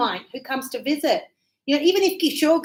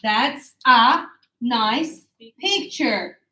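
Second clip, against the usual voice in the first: slow, clear "That's a nice picture." for learners; slow model sentence; 2 semitones lower, much slower than usual. Shown as a demonstration. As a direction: spell out each word slowly. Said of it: "Now, why up?".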